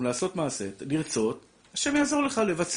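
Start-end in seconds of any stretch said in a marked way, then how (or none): 1.7-2.8 יעזור lifted high and stretched out; stress on יעזור. Real, not acted. Rabbi urging listeners to act, stressing יעזור. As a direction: lean hard into יעזור. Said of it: "אתה צריך לקום".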